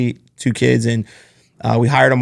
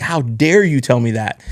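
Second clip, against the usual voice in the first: slow, mildly indignant retort; retold offense. Young manager offended by boss's tough conversation, slow mild indignation. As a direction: draw out the offended question, re-enacting it. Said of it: "And I was so offended".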